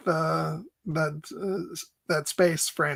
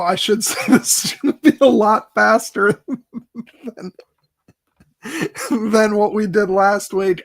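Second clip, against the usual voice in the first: laughing; 5 semitones higher, 7 dB louder than usual. Real, not acted.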